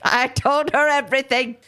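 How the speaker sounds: lightly hammed-up aged confession; withering old man. Podcaster reading the suspect's account of his wife, melodramatic old man. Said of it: "keeps getting older and older".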